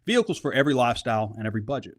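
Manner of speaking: brisk upbeat sponsor read, quick in places. Acted. Host reading the sponsor ad to listeners, upbeat ad read. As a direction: sell the dealership like a radio spot.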